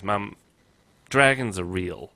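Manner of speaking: slow, matter-of-fact retold boy; solemn child's announcement. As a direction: announce it slowly, in all seriousness. Retelling son's solemn announcement.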